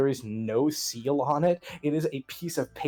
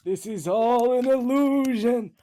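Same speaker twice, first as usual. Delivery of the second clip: higher, sheepish rogue caught out; caught intruder; 7 semitones higher than usual. Acted. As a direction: play the sly guest talking his way out. GM voices the intruder.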